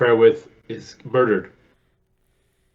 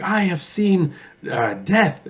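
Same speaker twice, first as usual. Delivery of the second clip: grand Raul Julia; 8 semitones higher, much slower than usual. Retold or imitated. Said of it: "and he's like".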